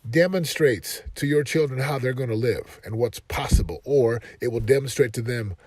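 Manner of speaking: firm coaching. Retold or imitated. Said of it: "And I told him".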